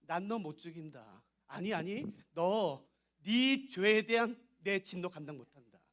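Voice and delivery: God warning the sinner, slow and solemn; God's voice. Acted. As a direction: speak as God refusing to kill the sinner, slow and hushed. God speaks to sinner in sermon.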